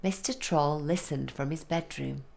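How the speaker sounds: plain reading voice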